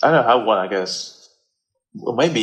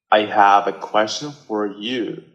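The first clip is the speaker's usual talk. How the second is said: American accent try. Shown as a demonstration. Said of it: "I'm gonna try to talk like an American man".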